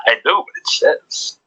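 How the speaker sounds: sinister voice. Retold or imitated. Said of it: "It's more sinister".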